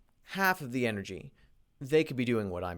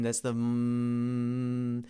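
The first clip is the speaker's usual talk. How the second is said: drawn-out hum; much slower than usual. Shown as a demonstration. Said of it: "when you hear that, the vibration".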